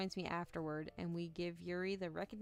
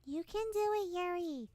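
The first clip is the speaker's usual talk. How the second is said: cheering on; 11 semitones higher, 3 dB louder than usual. Acted. Sayori cheering Yuri on.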